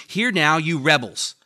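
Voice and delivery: loud reproach to the rebels; upset Moses. Acted. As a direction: call them out like an angry leader. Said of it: "So Moses is pretty upset".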